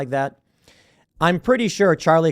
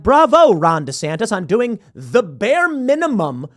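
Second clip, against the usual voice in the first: sarcastic bravo; 5 semitones higher, 4 dB louder than usual. Retold or imitated. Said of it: "be like".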